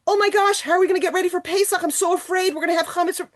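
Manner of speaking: high, fast fretting about Pesach cleaning; panicked inner voice. Retold or imitated. A wife imagining chametz everywhere, in mock panic.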